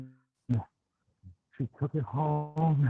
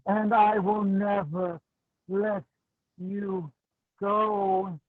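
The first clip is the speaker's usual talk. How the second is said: obsessive doll lover. Acted. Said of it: "kept saying to herself".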